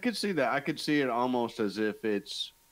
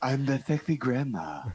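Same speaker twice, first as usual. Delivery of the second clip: laughing. Pretend. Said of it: "That's a good sexy grandma voice".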